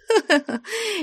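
short high chuckle; a knowing little laugh; light chuckle. Acted. Flyonushka chuckles handing over the sarafan. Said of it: "с усмешкой промолвила".

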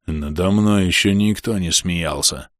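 rasping, slow undead retort; hoarse skeleton voice. Acted. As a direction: rasp it out slowly like a skeleton. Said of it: "хрипло парировал Аньрул".

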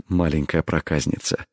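low, soft, teasing endearment; low teasing murmur. A narrator's reading. Lover refuses her plea, low teasing murmur. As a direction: murmur it low, playfully withholding.

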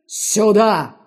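a touch of a barked order; growled command. A narrator's reading. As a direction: snap it at her, lightly. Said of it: "рыкнул дядя".

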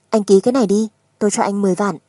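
pushing it across, no nonsense; firm demand. Acted. Wife demanding signature.

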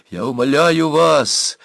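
a touch of desperate whispered pleading; loud pleading whisper. A narrator's reading. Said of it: "громко шептал он".

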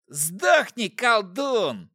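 high, loud hissing demon; demonic whisper. Acted. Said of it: "прошипел один из демонов".

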